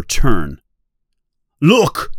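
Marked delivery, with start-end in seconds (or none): 1.6-2.1 high, sharp call of alarm; sudden shout. A narrator's reading. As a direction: call out a warning. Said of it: "says Quint".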